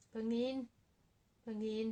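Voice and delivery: calling to a pet across the room; calling the cat. Real, not acted.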